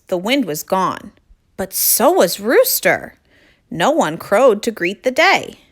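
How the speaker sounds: clear, projected read-aloud voice; story narration. A narrator's reading. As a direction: read a picture book to young children.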